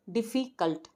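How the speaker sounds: "डिफ़िकल्ट" measured out as "di, fi, cult"; three syllables. Shown as a demonstration. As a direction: sound out each syllable of "डिफ़िकल्ट". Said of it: "three syllables words".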